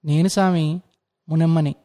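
bow and greet the master humbly; timid old woman. Acted.

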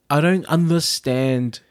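slow, halting inner monologue; imagined puzzled thought. Retold or imitated. Imagining a queen's thoughts at being misunderstood, slow puzzlement. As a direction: voice someone's bafflement word by word, slowly. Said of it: "she was sitting there thinking".

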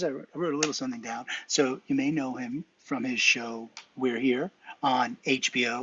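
introducing the guest on air; announcer intro. Acted. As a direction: read it like a show host. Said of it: "How am I doing, Jason?".

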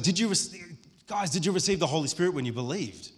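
eager, stumbling retold question; excited question. Paul eagerly asking the disciples he found, excited. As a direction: burst in keenly, restart, then ask it. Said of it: "The guy is excited".

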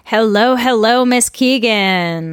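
bright, lifted greeting; big energetic hello; high energy hello. Real, not acted. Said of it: "a much more high energy hello than I was expecting".

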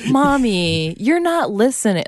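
high mock-reproachful kid voice; son parroting parents. Mom mimics son parroting the argument, high scolding. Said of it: "parrot things that we were saying".

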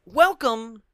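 horror trailer voice. Acted. Reading trailer tagline.

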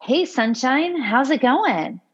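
imitating an upbeat, excited greeter; high-energy greeting. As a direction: greet them with a lilting, excited lift. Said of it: "same kind of high energy".

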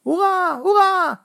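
high, loud cheering; roaring cheer. A narrator's reading. Rival fans cheering a second goal, loud roar. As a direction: roar hurrah across the field. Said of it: "Het daverde over het veld".

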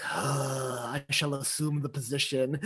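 resigned sigh, soft and low; Puss in Boots. Retold or imitated. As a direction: sigh it out like a cat giving in. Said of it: "he just sighs and he's like".

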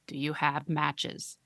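put-on slow monotone creepy little girl; flat, eerie, slow question; creepy monotone child. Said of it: "monotone and deeply".

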